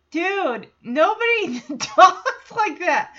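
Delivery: high, loud, drawn out through laughter; incredulous, laughing exclamation; laughing disbelief. Real, not acted. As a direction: protest while cracking up. Laughing at the fake Texan talk.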